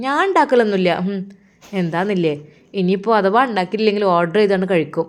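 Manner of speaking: angry rant. Acted. Wife scolding her husband about his brother, rising angry rant. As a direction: let the grievance boil over, voice rising.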